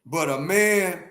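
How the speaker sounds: ordinary delivery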